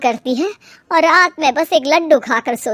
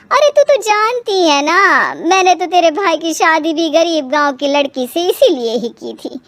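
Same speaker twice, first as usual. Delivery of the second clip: put-on self-justifying older mother; 3 semitones higher than usual. Mother refusing to help her married daughter, self-justifying. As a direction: stretch it out, excusing yourself.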